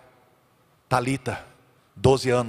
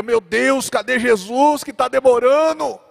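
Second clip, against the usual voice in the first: high, louder distressed cry; anxious sisters; 9 semitones higher, 4 dB louder than usual. Retold or imitated. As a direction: sisters crying out in worry. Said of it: "E Marta e Maria". (irmãs aflitas, grito agudo)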